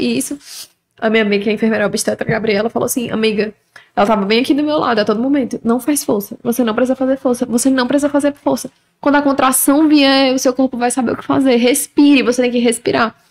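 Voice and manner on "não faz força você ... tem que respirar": ordinary talk, nothing marked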